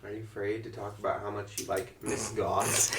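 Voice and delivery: soft unvoiced teasing whisper; conspiratorial whisper. Real, not acted. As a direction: lean in and whisper the tease.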